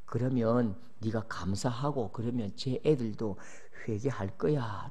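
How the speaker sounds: God calmly counselling Moses in a low solemn voice; stern God. Acted. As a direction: speak down slowly with grave authority. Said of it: "근엄하게".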